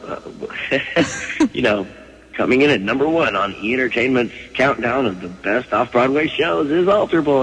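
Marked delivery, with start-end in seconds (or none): 2.3-7.4 announcer reading a countdown. Shown as a demonstration. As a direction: read it like a TV countdown host. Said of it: "you can do it better than me".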